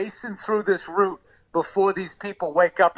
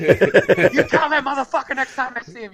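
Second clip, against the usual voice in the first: mock furious threat; 7 semitones higher, 5 dB louder than usual. Furious caller voiced in story.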